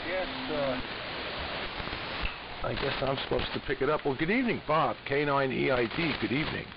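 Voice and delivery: usual speaking voice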